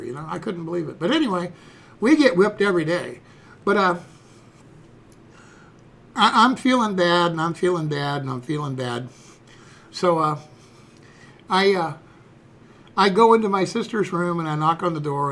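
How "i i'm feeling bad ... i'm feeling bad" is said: mounting guilt. Retold or imitated. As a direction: let each repeat droop further with remorse. Guilt repeated, sinking each time.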